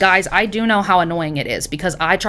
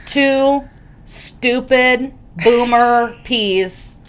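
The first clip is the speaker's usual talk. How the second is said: laughing; 5 semitones higher, much slower than usual. Real, not acted. Self-mocking laugh.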